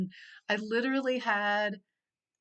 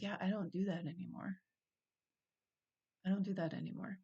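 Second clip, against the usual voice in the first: softer, settled "I don't do that anymore"; quiet self-assurance; 6 dB quieter, faster than usual. Retold or imitated. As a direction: say it softly, like an old thing let go. Quoting her new self, calmly.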